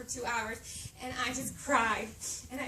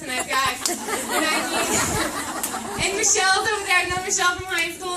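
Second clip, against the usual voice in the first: laughing; 6 semitones higher, 10 dB louder than usual. Real, not acted. Laughing while telling story.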